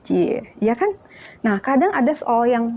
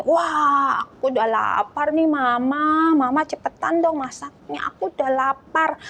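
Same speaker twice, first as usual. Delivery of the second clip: impatient whining; 4 semitones higher than usual. Acted. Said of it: "Siapa yang nggak sabaran?".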